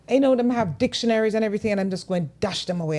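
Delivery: put-on quick Jamaican accent; light Jamaican accent. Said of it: "in her Jamaican accent".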